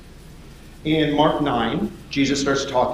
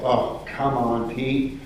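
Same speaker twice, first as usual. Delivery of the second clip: exasperated groan; 4 dB quieter, much slower than usual. Acted. Groans at Peter's fail.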